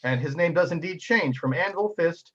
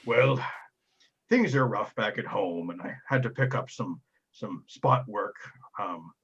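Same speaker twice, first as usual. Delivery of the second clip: sheepish giant; 3 semitones lower than usual. Acted. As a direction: confide your troubles shyly. Giant explains his life.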